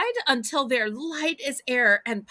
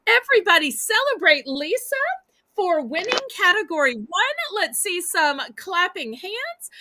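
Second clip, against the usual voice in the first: excited; 4 semitones higher than usual. Real, not acted. Host rallies audience to celebrate.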